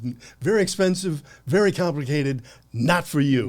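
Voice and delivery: loud, high mock Hong Kong accent; imitating a heavy Chinese accent. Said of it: "in a, you know, a heavy accent".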